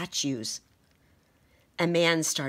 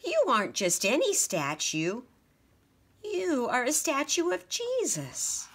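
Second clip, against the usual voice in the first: wondering mouse; 8 semitones higher than usual. A narrator's reading. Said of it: "sighed Mortimer".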